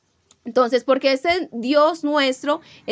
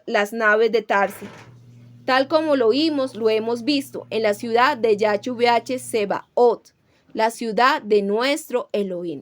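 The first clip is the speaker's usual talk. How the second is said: scripture reading. Acted. Preacher reads Psalm 48 to his church in a measured scripture-reading voice. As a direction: read the verses steadily to the congregation.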